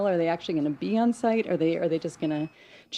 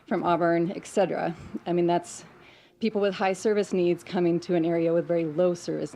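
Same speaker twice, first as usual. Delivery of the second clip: nervous shaky voice. Real, not acted. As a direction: voice shaking with nerves. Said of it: "sorry, my voice is shaking".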